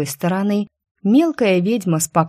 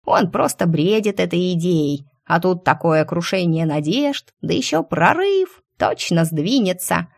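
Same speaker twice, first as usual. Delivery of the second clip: dreamy squirrel. Acted. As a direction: dreamily savour the idea. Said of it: "мечтательно закончила белка".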